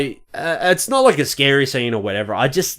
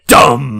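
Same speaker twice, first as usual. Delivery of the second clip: imitated music sting; 6 dB louder than usual. Explaining what made him jump, punched music sting. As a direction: voice the scare chord as one punched note. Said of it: "it was the music bit".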